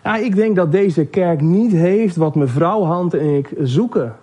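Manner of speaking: slow, measured character reply; slow-spoken. Acted. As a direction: take your time getting the words out. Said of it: "wat langzamer met zijn woorden".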